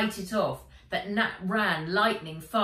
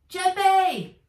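high, loud cry of a name; girl crying out to her wounded wolf; 12 semitones higher, 9 dB louder than usual. A narrator's reading. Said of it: "Nat cried".

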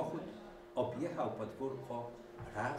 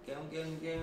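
higher honking gę gę gę; goose honking; 7 semitones higher than usual. A narrator's reading. Goose pushed away by hens, honking. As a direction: honk like a goose. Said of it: "gęgała gęś".

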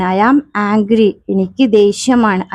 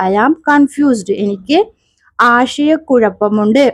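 slow drill; slower than usual. Shown as a demonstration. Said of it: "teacher drilling phrase".

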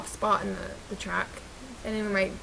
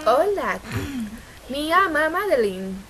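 put-on Spanish accent; 4 semitones higher, 3 dB louder than usual. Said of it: "doing some dang accent".

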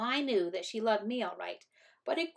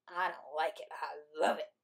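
lower, gloating reply; smug announcement; 3 semitones lower than usual. A narrator's reading. Brother finishing the last stalk, smug announcement. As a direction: announce it with relish. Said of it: "he announced".

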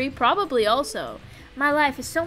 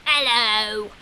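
slow put-on sprite voice, mock tough; hammed-up little sprite threatening; goofy sprite voice; slower than usual. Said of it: "And then I come in and I'm like".

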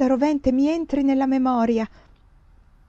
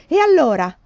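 louder, pressing demand; an anxious louder plea to hear what came next; urgent loud question; 4 semitones higher, 7 dB louder than usual. A narrator's reading. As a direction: push hard for the answer.

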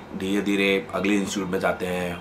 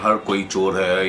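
drawn-out, mocking fake wail; slow down into a pretend sob; mock crying; slower than usual. Teacher mimicking cheated students who blame every institute, mock crying. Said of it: "रोते रहोगे".

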